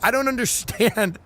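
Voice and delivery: hammed-up interrogator jab; mock torturer taunt. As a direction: sneer at the Beatle. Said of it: "put him up on the rack and go".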